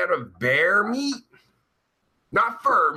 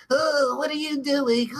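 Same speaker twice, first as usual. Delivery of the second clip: higher-pitched, put-on goofy voice; mocking everyone else's voice; 7 semitones higher than usual. Streamer imitating how everyone else talks to him, goofy high voice. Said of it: "everyone else to me talks like".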